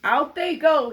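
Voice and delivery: loud, firm order; dad ordering kittens out; firm father. Acted. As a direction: put your foot down. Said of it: "he said".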